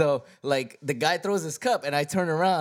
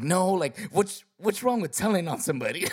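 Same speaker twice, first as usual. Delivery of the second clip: higher-pitched mock indignation; retold losing it; 5 semitones higher than usual. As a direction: imitate a friend getting worked up, only mildly. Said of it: "He, he lost it".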